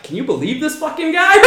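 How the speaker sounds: laughing mock outrage. Retelling his gesture to the white guy, laughing mock outrage. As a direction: fake outrage, cracking up. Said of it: "kinda pointed to the Muslim guy".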